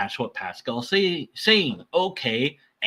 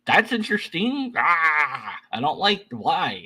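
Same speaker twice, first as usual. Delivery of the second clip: puzzled inner voice; 5 semitones higher than usual. Retold or imitated. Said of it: "and you'll be like".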